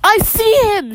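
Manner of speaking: high-pitched mock shout. Nora spotting Swiper for Dora, shouting. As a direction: pipe up high without much volume. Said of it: "shouts Nora".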